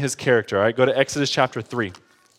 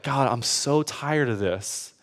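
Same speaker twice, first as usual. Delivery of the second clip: softer, worn-out pleading climbing in pitch; weary complaint; 3 semitones higher, 4 dB quieter than usual. Retold or imitated. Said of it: "I start this whole spiel again".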